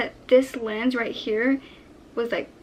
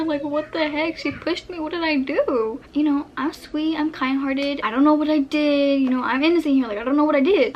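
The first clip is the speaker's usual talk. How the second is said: higher-pitched, wounded bafflement; puzzled protest; 3 semitones higher, 3 dB louder than usual. Retold or imitated. Girl shoved by her best friend, puzzled protest. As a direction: plead innocence, confused and building louder. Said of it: "I was really puzzled".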